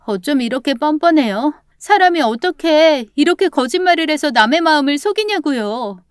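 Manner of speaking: high-pitched, hurt indignation; indignant reproach. Acted. Roommate confronting grandmother over her lies, indignant. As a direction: confront them with rising outrage.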